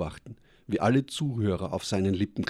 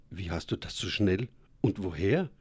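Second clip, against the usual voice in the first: stammering. Acted. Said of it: "Verwundert stotterte ich".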